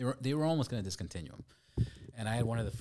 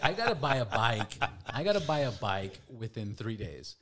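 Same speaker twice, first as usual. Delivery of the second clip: louder retold panic, easing off; mock-frantic realization; urgent; 6 dB louder than usual. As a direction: blurt it out, half laughing. Retold urgency after selling his bike.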